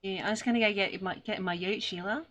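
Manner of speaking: lightly put-on Australian bloke; broad Aussie accent. Failed attempt at own country's accent, Aussie accent. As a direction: have a half-hearted go at broad Aussie. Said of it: "Australian accent".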